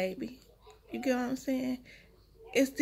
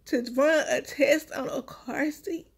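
slow, tearful telling, voice catching; holding back real tears; crying; 2 semitones higher, 4 dB louder than usual. Real, not acted. Mother telling viewers about her newborn, tearful and slow. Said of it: "I'm sorry I be crying".

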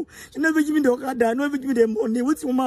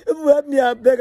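crying plea; 5 dB louder than usual. Real, not acted. Final begging through tears.

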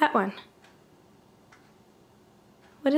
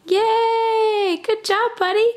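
high, loud happy cheer; excited cheer; 8 semitones higher, 5 dB louder, much slower than usual. Real, not acted. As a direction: cheer him on, big and bright. Cheering toddler's success.

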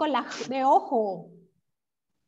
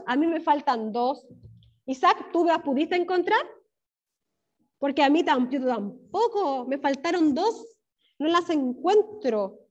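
ordinary talk

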